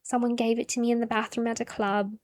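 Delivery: a lightly put-on airy girl voice, unbothered; dreamy Cassie. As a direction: imitate a quirky teen girl, lightly voiced. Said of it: "Cassie would be like".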